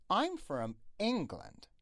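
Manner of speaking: "England" stressed on its opening "En"; slow model sentence, leaning on the "En" of "England"; stress on first syllable. Shown as a demonstration. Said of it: "استرس بر روی ای ان هست".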